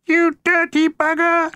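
high, slow, indignant yell up at the window; a neighbour's high outraged cry; angry cry from below. A narrator's reading. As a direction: shout it up in outrage. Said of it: "came a cry from below".

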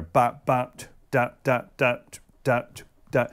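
syncopated scat syllables; vocal drum rhythm. Shown as a demonstration. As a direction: sing the rhythm with rests. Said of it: "put a couple rests in there".

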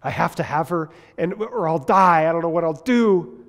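mock lovesick despair. Acts lovesick desperate person.

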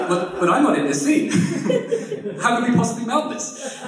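hammed-up diva actor refusing a script; indignant vain star. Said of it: "He's like".

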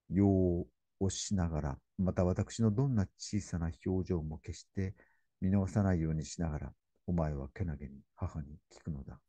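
slow, hushed, grieving recital; solemn poem reading. Acted. Lecturer reading Kenji's grief for his dying sister, hushed solemn reading. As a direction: let the lament sink quietly. Reads 無声慟哭 aloud.

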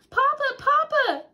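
high, loud eager calling out; little boy calling excitedly. Acted. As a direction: call Papa over, thrilled. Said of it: "called Silbert Civet excitedly".

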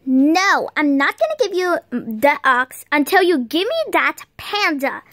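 low robber voice. Pretend. Robber voice demands panda.

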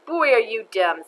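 loud, scornful schoolkid jab; mock a classmate loudly. Jenny mocks Stephen.

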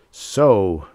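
loud, exclaimed accusation; cried out. A narrator's reading. Mister Demise confronting Reggie caught with the book, crying out. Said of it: "Mister Demise cried".

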